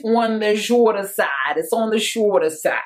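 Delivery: playful fake New York accent slipping out; lightly faked New York accent. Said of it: "that's my fake New York accent coming out".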